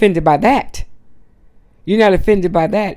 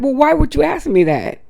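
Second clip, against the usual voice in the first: high, mildly indignant retort; retold indignation; 7 semitones higher than usual. Upset parent challenging office staff, high retold indignation. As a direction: imitate an upset parent, voice pitched up. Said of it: "he got mad".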